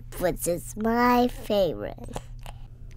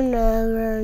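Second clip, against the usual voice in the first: loud never; 5 dB louder than usual. Retold or imitated. Mommy repeating the warning loudly. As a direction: still loud, insistent Never. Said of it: "and yelled at me".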